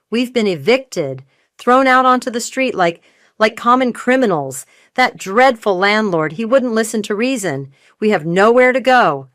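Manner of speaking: high, loud, voice cracking with self-pity; evicted mother whining to her daughter, hammed-up; theatrical distress. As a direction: wail it like a martyr on stage. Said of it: "Her voice cracked".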